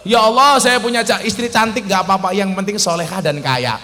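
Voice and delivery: confident prayer asking for the maximum; right prayer. Shown as a demonstration. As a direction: ask big and confidently. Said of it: "Nah, keren".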